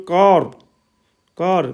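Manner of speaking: "कार" with a long open आ; teacher showing the आ sound in "कार"; vowel as Hindi आ. Shown as a demonstration. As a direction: model "कार" as a clear, falling KAAR. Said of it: "तीसरा है आ की ध्वनि में".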